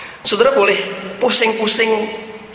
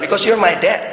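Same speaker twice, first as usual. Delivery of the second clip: higher-pitched imitation of a little boy; lightly voiced child, pitched up; child's simple answer; 5 semitones higher than usual. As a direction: answer dad like a trusting kid. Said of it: "Dia cuma jawab".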